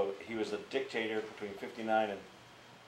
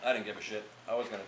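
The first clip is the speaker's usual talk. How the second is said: ordinary talk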